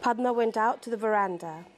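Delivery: measured novel reading with pauses between phrases; literary story narration. Acted. Author reads her novel's opening to an audience, literary narration. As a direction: read the passage aloud, letting each image settle.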